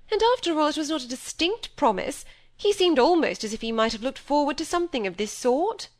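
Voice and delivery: a vain mother praising a rich suitor; gushing society mother. Acted. Mother voice again.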